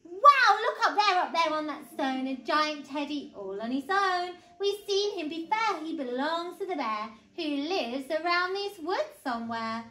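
put-on excited storybook little boy; amazed child. A narrator's reading. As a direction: burst out in wonder, then explain eagerly. Eddie spots a giant teddy.

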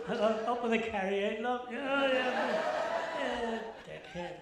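loud, fast, laughing comeback; loud heckle banter. Real, not acted. Comic shouting back at a heckler, laughing.

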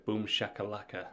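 punchy showman shout of boom shakalaka; hype catchphrase. Retold or imitated. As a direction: sell it like a hype man. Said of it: "as the metrology would say".

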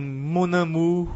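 amour with ou like Portuguese u, slow; French mon amour, ou sound. Shown as a demonstration. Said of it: "U, simplesmente, como em".

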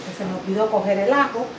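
ordinary talk, nothing marked

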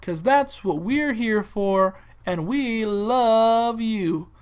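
drawn-out promo voice, stretched key words; mock advert pitch. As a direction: sell it like a hokey local ad.

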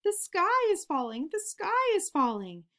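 high, loud panicked cry of a frightened chick; panicked scream. A narrator's reading. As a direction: shriek it like the sky is really falling. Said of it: "Chicken Little screamed as he ran".

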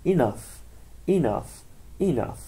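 ENOUGH with the final GH said as F; pronunciation drill. Shown as a demonstration. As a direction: repeat ENOUGH distinctly, ending on an F sound. (تکرار ENOUGH با صدای «ف» در آخر)

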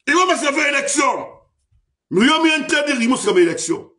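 high, loud rally speech; fiery political oratory. Acted. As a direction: rouse the crowd from the podium.

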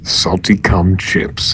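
low slow ad-man growl; growly salesman voice. Acted. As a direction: sell it like a gruff TV pitchman. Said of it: "in my growly salesman voice".

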